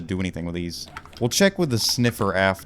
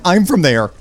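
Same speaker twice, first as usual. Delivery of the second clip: loud, high mock-excited cry; excited crowd member; 10 semitones higher, 10 dB louder than usual. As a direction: yell it like a thrilled fan. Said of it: "then people get excited".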